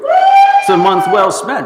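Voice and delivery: very high squeaky voice. Acted. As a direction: squeak it out like a puppet. Squeaky voice then repeat.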